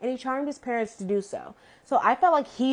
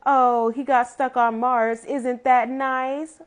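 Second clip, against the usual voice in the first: slow, drawn-out breezy parent impression; mock uncaring parents; 2 semitones higher, 4 dB louder, slower than usual. Parents hearing their son is stuck on Mars, mock unconcerned. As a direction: imitate parents brushing it off, stretched out slowly. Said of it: "these parents didn't care at all".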